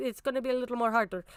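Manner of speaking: natural, unmasked, own native non-American accent. Showing how hard you are to follow with your own accent: own native non-American accent. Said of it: "but if I talk like this".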